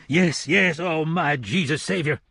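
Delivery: eager. A narrator's reading. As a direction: blurt it out eagerly.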